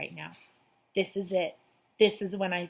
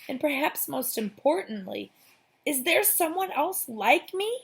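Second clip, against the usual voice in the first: anxious; 7 semitones higher, 3 dB louder than usual. A narrator's reading. Narrator voices anxious questions.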